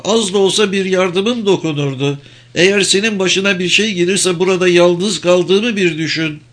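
high-pitched imploring woman; woman pleading to come along; pleading companion. Acted. Same woman keeps pleading.

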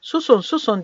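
mildly shouted order to hush. A narrator's reading. Several villagers silence the old man, mild shout. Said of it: "diye bağırdı birkaç kişi".

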